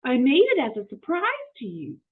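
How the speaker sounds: pleased to offer a treat; happily. Acted. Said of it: "said Amelia Bedelia happily".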